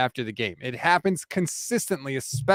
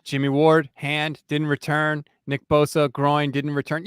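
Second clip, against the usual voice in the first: flat injury report; slower than usual. Retold or imitated. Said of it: "more of a statement of fact".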